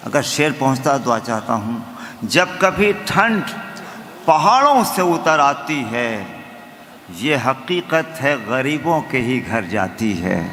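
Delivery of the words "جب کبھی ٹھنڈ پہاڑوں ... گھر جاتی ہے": measured, declaimed verse; stately nazm recitation. Acted. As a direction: recite to the audience with weight.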